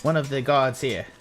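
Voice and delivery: high character voice explaining procedure; officious guard. Acted.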